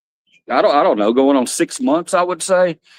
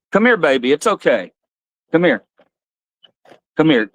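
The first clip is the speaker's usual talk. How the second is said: coaxing. Real, not acted. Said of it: "I've gotta comfort her".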